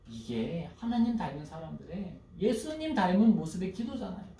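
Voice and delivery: ordinary talk, nothing marked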